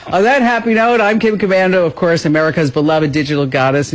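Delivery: practised announcer patter; radio sign-off. Real, not acted. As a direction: deliver the show ident in a polished radio voice.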